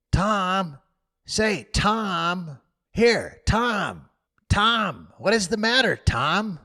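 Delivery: a frightened little brother pleading; anxious boy. Acted. Sid waking to Tom's groans, anxious. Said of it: "looked at his face anxiously".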